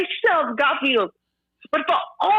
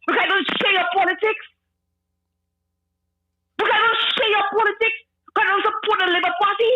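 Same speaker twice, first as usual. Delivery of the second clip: higher-pitched, incredulous questions; indignant; 3 semitones higher than usual. Real, not acted. Woman asking host if politics earns such threats, indignant. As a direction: throw each reason back as an outraged question.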